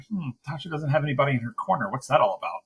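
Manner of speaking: quick puzzled musing; wondering aloud, fast and curious; a fast puzzled aside. Retold or imitated. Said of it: "I was sort of like".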